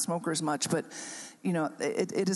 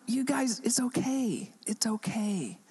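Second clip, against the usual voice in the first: soothing whisper; 4 semitones higher, slower than usual. Retold or imitated. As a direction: whisper it's okay gently. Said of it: "and I thought".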